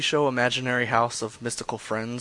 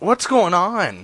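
drawn-out, high, loud greeting; loud call-out; 7 semitones higher, 8 dB louder, much slower than usual. Acted. Prank caller cutting over a voicemail greeting, loud drawn-out holler. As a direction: holler it slowly, stretching the words.

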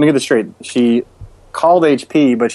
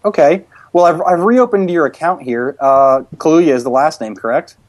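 slightly raised, polite customer-service voice; prank caller voice; 4 semitones higher than usual. Pretend. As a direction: play an HP customer-service rep, raised a touch. Prank call as HP rep.

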